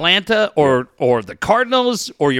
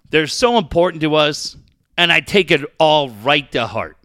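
mock sincere sarcasm; 5 semitones lower than usual. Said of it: "could you tell I was being sarcastic".

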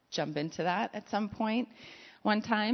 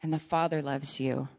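intimate tender; 2 semitones lower, 3 dB quieter than usual. Acted. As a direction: speak gently, close and personal. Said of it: "very intimately and said".

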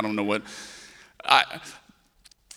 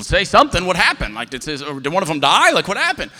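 panicked demand; 3 semitones higher, 6 dB louder than usual. Acted. Husband demands news from frightened wife.

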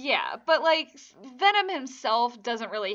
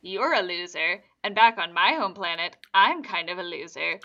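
imitating an alien in a slightly lowered voice; a hint of low monster talk; mild mock alien confiding; lightly voiced alien buddy; 4 semitones lower than usual. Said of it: "is because he's like".

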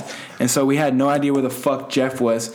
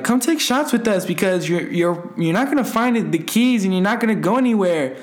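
higher-pitched imitation of coaxing girls; 5 semitones higher than usual. Girls urging him to take shots, coaxing. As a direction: mimic someone urging a friend along.

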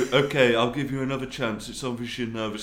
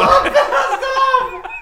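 ordinary talk

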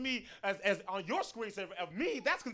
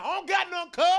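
higher and louder, a put-on street tough; mock tough guy; 8 semitones higher, 7 dB louder than usual. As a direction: fake gangster bravado for the cops. Imagined reply to the cops.

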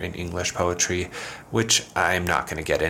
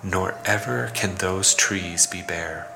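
slow, measured poetry reading with pauses between phrases; poem recitation; slower than usual. Acted. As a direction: recite the ode deliberately, letting each phrase hang.

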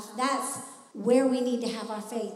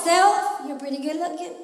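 a light chuckle, flattering yourself; self-flattery; 2 semitones higher, 6 dB louder than usual. Shown as a demonstration. Preacher showing the church how to talk to yourself in the mirror, playfully. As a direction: compliment yourself with a grin. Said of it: "talk to yourself like that".

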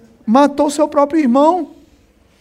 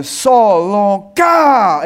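distant call; 2 semitones lower, much slower than usual. Retold or imitated. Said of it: "aí uma voz, quilômetro de distância".

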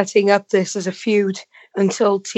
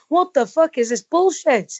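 mild mock yell, pitched higher; retold TV scream; 5 semitones higher than usual. Viewer retelling outrage at the TV, mock scream. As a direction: re-enact exasperated screaming without really shouting. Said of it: "I was literally sat here screaming at the T V going".

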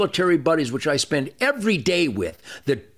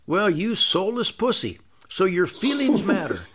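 an even, unbothered calm, barely above his usual talk; very calmly. Retold or imitated. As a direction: say the insult as calmly as ordering coffee. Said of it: "I very, very calmly say".

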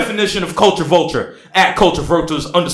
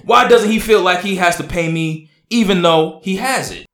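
mock passion; 2 semitones higher than usual. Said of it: "I need more dramatics".

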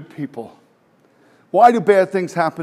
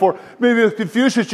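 laughing; 3 semitones higher, 6 dB louder than usual. Real, not acted. Preacher mocking rival teachings.

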